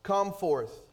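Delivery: calling loudly into the tomb; loud command. Acted. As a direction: ring it out with authority. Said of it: "he cried out with a loud voice".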